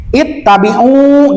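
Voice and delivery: "Ittabi'u" with a lengthened final u; two-count long vowel. Shown as a demonstration. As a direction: stretch the u ending "Ittabi'u". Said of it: "itu panjang dua harokat".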